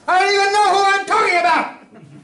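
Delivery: a frantic yelp of confusion; exasperated outburst. Real, not acted. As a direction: blurt it out, totally flustered. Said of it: "Don't get excited".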